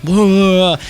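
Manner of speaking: mock drunken bluster. Drunk fan answers the merch girl, mock bluster. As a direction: mimic a drunk's blustering "blah". Mimics drunk man's angry reply.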